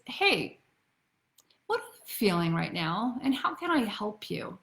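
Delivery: gentle, unforced check-in; caring question. Shown as a demonstration. Models the caring way to ask.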